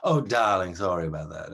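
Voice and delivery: a hint of the dandy's accent for a nice apology; Dandy's apologetic accent. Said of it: "I will do the accent".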